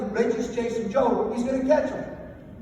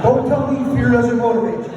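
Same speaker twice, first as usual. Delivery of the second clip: emphatic close; 2 semitones higher, 8 dB louder than usual. Real, not acted. Closing punchline to audience.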